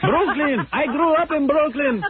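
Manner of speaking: high, slow mock Brooklyn accent; imitating a Brooklyn Hasid. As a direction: play the Crown Heights guy.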